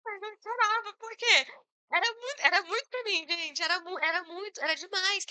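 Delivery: high, soft whimpering lament; mock tearful. Teased child explaining why she cried, mock tearful. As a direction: play up a hurt child's plaint.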